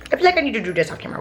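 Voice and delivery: quick high-pitched repeat. Shown as a demonstration. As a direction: rattle it off fast and high. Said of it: "fast repeat".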